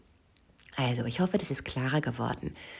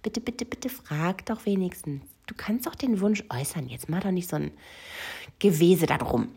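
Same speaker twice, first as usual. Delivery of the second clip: mild mock pleading, pitched higher; retold pleading cry; 4 semitones higher than usual. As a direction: beg urgently without really screaming. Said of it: "alles in mir hat geschrien".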